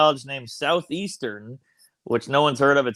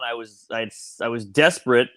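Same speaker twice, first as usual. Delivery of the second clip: ordinary delivery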